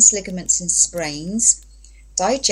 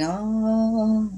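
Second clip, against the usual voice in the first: weak oh; 3 semitones higher, 4 dB quieter than usual. Retold or imitated. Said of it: "So I'm going".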